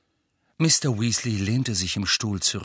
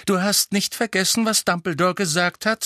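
high, sharp warning; 10 semitones higher, 4 dB louder than usual. A narrator's reading. Mother reminding the godfather of orders, sharp warning. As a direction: warn him off sternly. Mother warns Sirius, dangerous look.

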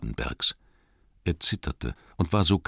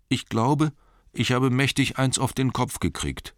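higher voice, a little dazed; hurt hobbit; 8 semitones higher than usual. Acted. Injured Bilbo telling his rescuer how he is, high and dazed.

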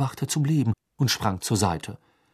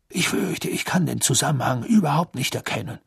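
Fudge's voice; 5 semitones higher than usual. Acted. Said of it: "die Stimme des Zaubereiministers Cornelius Fudge".

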